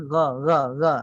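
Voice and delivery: GHA as a thin, open 'gha'; tongue root down, repeat a light gha; low articulation. Shown as a demonstration. (gha rendah dan nipis)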